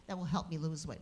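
lightly voiced Brooklyn woman; a hint of her pleading tone; imitating a Brooklyn housewife asking for help; impression of Joyce. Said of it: "I'm going to sound exactly the way she sounded".

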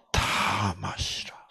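slow whisper. Acted. Jesus offering the cup to the disciples, whispered. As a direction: breathe it out gently and slowly.

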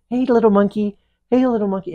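high, sing-out call to a little monkey; imitated luring call; coaxing an animal.

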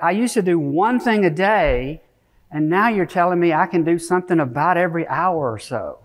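lightly voiced excited researcher; excited scientist, retold. Scientist amazed he can work every hour, retold excitement. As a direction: retell his amazement with lifted pitch. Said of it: "never seen somebody so excited".

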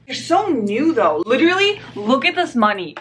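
high-pitched bursts of delight; geeking out. Real, not acted. Vlogger admiring new coins, geeking out. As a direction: marvel like an excited nerd. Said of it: "Sorry I'm geeking out".

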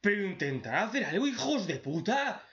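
hammed-up fed-up yell at onlookers; mock exasperated scolding. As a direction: scold useless bystanders half laughing. Exasperated at passive characters.

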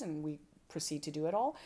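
ordinary delivery

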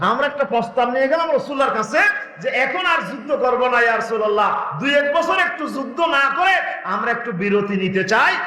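urgent, ringing sermon delivery; impassioned preaching. Real, not acted. Companions ask the Prophet for respite, impassioned preaching. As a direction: voice the plea as a preacher to a crowd.

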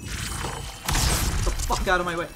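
slow hissed whisper; whispered curse. Real, not acted. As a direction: breathe it out tensely. Whispered cursing at enemies.

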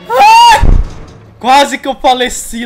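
shrieking, then slow shaken shout; real fright, high and loud; scared horror game streamer. Real, not acted.

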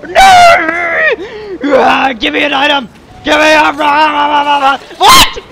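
loud, high desperate yelling at the game; frantic shouting. Real, not acted. Player yelling at the game for an item, frantic shout. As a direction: beg the game, then shriek in outrage.

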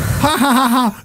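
high, forced ha ha ha; hammed-up theatrical laughter; mocking stage laugh. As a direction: cackle down at the villain. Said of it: "So, like".

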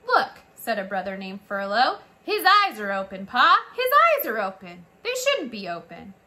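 alarmed brother calling. A narrator's reading. Brother mouse calling his father about the open eyes, alarmed. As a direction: shout the news at father.

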